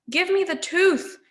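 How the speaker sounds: put-on a grasping old crone wanting her tooth; cackling witch's demand; greedy hag. Squabbling hag grabs tooth.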